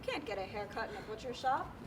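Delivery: fast, tearful wail; crying. Acted. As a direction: break down while asking. Woman breaks into tears.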